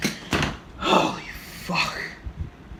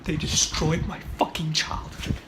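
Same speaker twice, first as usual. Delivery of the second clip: mock despair; 3 dB quieter than usual. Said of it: "obviously I'm being fucking sarcastic".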